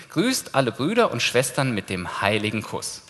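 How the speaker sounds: slow, measured verse reading; solemn reading. Shown as a demonstration. Preacher reading the kiss verse to the congregation, slow and solemn. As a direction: read the verse slowly, with weight.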